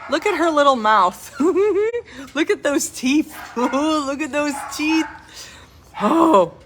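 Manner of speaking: laughing while talking. Real, not acted. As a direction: giggle at the puppy. Laughing at the puppy's teeth.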